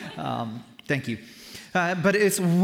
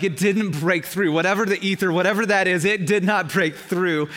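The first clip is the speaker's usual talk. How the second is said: frustrated protest; 3 semitones higher, 6 dB louder than usual. Acted. Voicing frustration at unanswered prayer.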